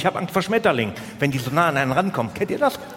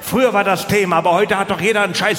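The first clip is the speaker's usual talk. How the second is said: ranting; 3 semitones higher than usual. Real, not acted. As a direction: hammer the point home to the audience. Ranting at the crowd.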